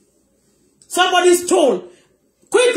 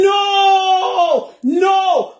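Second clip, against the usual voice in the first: higher pitched, imitated cry of no; a higher mock wail of no; imitating a boy crying out; 7 semitones higher than usual. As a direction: echo a boy crying no in distress. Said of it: "You can hear a voice of a boy".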